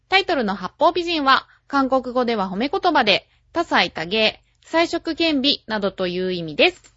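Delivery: measured, clearly projected show intro; programme announcer read. Acted. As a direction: present the programme to listeners like an announcer. Reads the programme opening.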